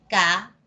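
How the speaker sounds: "Ca-i-da" cut into three clear syllables; syllabified. Shown as a demonstration. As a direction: spell "Ca-i-da" out syllable by syllable. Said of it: "Entonces yo separo".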